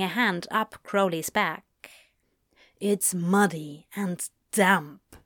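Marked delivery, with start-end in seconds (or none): 2.8-5.2 lightly voiced Crowley. Crowley's voice in the story.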